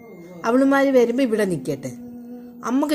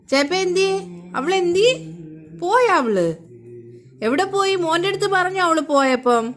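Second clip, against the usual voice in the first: mock indignation; 4 semitones higher than usual. Mock-scolding the absent sisters to baby.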